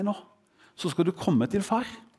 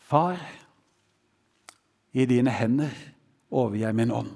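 calm, trusting surrender with long pauses; 5 semitones lower than usual. Acted. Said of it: "Det er tillitsfullt".

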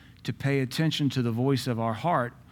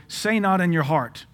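emphatic scripture quote; 4 semitones higher, 4 dB louder than usual. Acted.

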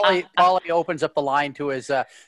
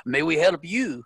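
put-on lightly done French-English accent as Picard; a mild French lilt on English as a starship captain; calm captain on the radio in a faint French-English accent; Picard's French-English accent. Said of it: "meld your English accent with the French one".

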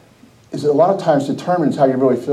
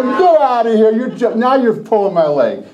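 higher-pitched incredulous retort, retold; mock disbelief; 4 semitones higher than usual. Preacher reacting to friend's second win, incredulous. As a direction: brush it off as a joke.

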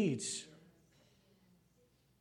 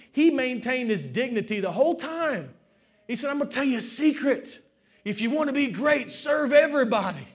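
raised, emphatic preaching voice; 5 semitones higher, 5 dB louder than usual. Real, not acted. Preacher telling how Jesus washed feet, fervent preaching. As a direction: drive each point home to the congregation.

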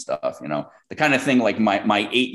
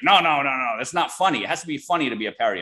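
higher-pitched, insistent imitation of the client; mock indignant client; 7 semitones higher, faster than usual. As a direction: play the offended client, talking fast at the end. Quoting the angry client.

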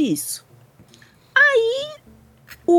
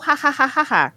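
imitação de berros; 5 semitones higher than usual. Retold or imitated. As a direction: imitate someone's yelling as repeated ha's. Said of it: "ele só berrou". (imitando berros, sem gritar de verdade)

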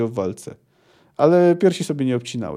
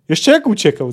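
delighted; 5 semitones higher, 4 dB louder than usual. Acted. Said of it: "zachwycił się Percival".

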